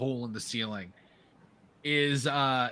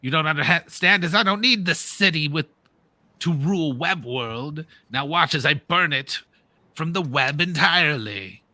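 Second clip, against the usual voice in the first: mild yell, raised at the start; villainous yelling; 4 dB louder than usual. Acted. Dragon yelling at Ravenger while flying out, mildly yelled. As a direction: rail at a fool, then declare the threat. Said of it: "just yelling".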